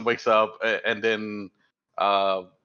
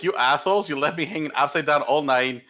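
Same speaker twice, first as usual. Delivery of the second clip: angry dwarf hiss; 4 semitones higher than usual. Acted. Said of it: "And he hisses at you guys".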